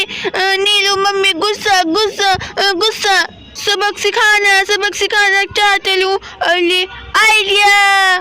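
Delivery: a hint of a cross child, ending on a drawn-out exclamation; mildly grumpy story-boy, then struck by an idea; lightly voiced sulky Shivam. (हल्के गुस्से वाले बच्चे की आवाज़, फिर idea की खुशी)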